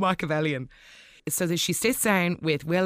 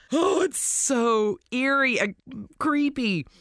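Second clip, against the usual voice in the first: spooked; 6 semitones higher, slower than usual. Real, not acted. Describing eerie scene.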